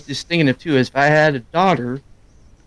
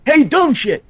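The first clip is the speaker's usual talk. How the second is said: high-pitched mock holler; mock call-out; 13 semitones higher, 4 dB louder, slower than usual. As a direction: call out the nickname across a crowd. Mock public call-out of a nickname.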